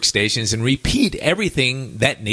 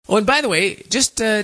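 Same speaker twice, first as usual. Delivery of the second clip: laughing; 9 semitones higher than usual. Real, not acted. Laughs after the Canadian joke.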